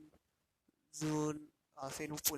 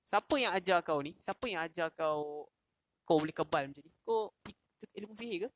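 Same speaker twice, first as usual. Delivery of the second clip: angry king. Retold or imitated. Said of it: "Dia marah kata".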